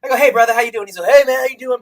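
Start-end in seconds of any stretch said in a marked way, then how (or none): 0.2-0.9 a hint of the wrestler, a bit louder and higher; lightly hammed-up Hulk Hogan. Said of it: "he sounds like Hulk Hogan". 1.1-1.8 raised, louder wrestler greeting; lightly imitating a wrestler's promo; mock Hulk Hogan hello. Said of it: "he sounds like Hulk Hogan".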